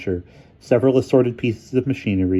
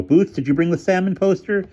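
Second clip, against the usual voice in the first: character voice; 11 semitones higher, 3 dB louder than usual. A narrator's reading.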